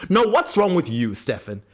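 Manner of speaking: mock indignation, high start dropping on the name; Klaus, indignant retort. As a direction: turn the accusation back, hammed-up. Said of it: "slips back into one of his Delulu rants".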